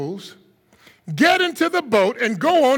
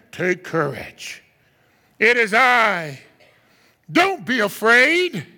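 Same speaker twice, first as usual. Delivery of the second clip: calm reassurance; 3 semitones lower, slower than usual. Acted. Jesus calming the disciples.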